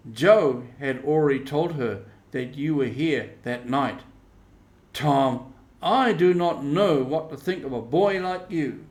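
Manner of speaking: an aunt hurt and cross; reproachful Aunt Polly. Acted. Aunt Polly to Tom, reproaching his lie, loud.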